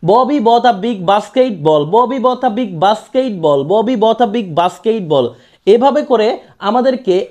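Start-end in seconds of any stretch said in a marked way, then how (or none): 0.0-5.3 slow, deliberate repetitions run together; teacher demo of a tongue twister, three times in one breath. Shown as a demonstration. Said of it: "তিনবার এক নিঃশ্বাসে".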